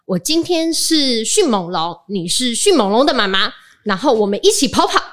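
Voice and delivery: a hint of an excited little dinosaur player; child role-play. Mother imitating her kindergartner playing velociraptor, lightly childlike. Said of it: "他就会说".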